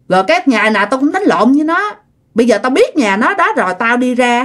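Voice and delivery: acted indignant outburst; angry threat. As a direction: rant and vow revenge. Acted angry threat on hearing news.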